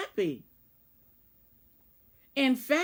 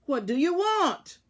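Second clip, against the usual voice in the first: growl; 6 semitones higher, 5 dB louder than usual. A narrator's reading. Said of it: "growled Tweez".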